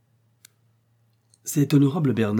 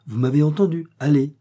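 a raised, higher order to leave; curt command; 4 semitones higher, 5 dB louder than usual. Acted. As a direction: dismiss him with authority. Vicomte orders the porter out.

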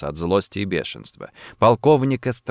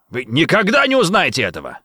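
defiant, raised and higher; shouting; 5 semitones higher than usual. A narrator's reading. Colonel refuses to answer his captor, defiant shout. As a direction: throw the refusal at him. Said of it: "закричал он".

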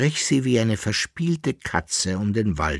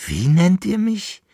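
high, louder indignant call; indignant cry; 12 semitones higher, 5 dB louder than usual. A narrator's reading. Masked lady cries out at being called Patron, indignant. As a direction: cry out, offended at the name. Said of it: "rief die Herrin des Hauses".

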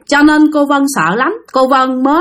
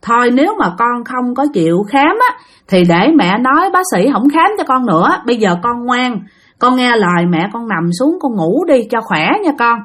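mother gently coaxes her son to lie down; gentle. Acted. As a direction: soothe the child to sleep. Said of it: "nói nhẹ nhàng với nó".

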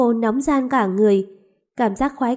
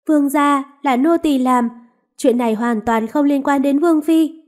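pleading maid; 3 semitones higher than usual. Acted. Maid confessing to the lord to clear her mistress, pleading. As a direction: take the blame to shield your mistress.

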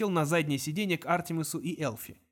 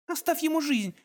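put-on higher, begging girl's plea; 12 semitones higher than usual. A narrator's reading. Girl begs Kong for the guard's life, begging. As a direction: implore him, voice up high. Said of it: "взмолилась Минерва".

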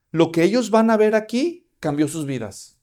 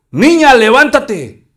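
slow, loud, higher cry of Niña, levántate; loud command; 7 semitones higher, 13 dB louder, slower than usual. Acted. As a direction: command her to rise with power. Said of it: "clamó diciendo". (clamor lento y fuerte: "Niña, levántate")

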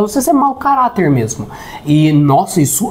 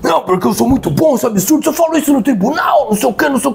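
fast, higher, huffy rant; indignant relative; 5 semitones higher, much faster than usual. Retold or imitated. Lawyer relative protests at dinner, fast mock indignation. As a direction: rattle off his outraged protest. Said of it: "Aí, beleza".

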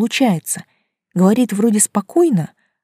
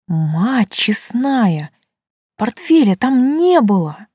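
shocked; 5 semitones higher, 4 dB louder, much slower than usual. Acted. Narrator's shocked discovery.

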